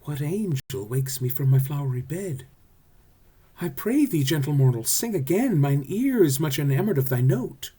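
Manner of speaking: high, lilting fairy queen; enraptured, high and loud stage voice. Acted. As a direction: swoon over the singer in a high queenly voice. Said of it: "Here's what she says".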